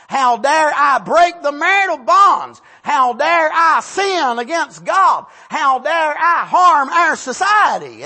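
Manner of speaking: from slow and measured up to a loud, shouted confession; building repentant shout. Retold or imitated. Sinner confessing to God what he should say, rising to a shout. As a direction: build each how dare I until you are shouting. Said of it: "Instead of saying".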